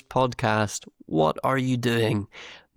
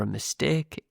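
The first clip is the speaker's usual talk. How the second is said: northern English "mistake" with a pure, unglided "ay"; northern English accent. Shown as a demonstration. Teacher gives learners both versions, this one northern English. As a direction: say "mistake" with a northern English monophthong in the second syllable. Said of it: "If you want to say it like me".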